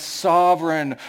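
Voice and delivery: drawn-out pompous prayer titles; lightly mock a stiff formal prayer, each title stretched; a hint of a pompous Englishman praying; dragging out formal titles. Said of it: "dragging out all these adjectives".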